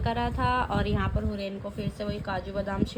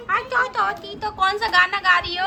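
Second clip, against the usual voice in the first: high, louder cooing question; 8 semitones higher, 5 dB louder than usual. Real, not acted. Mother asks her singing baby which song, high cooing.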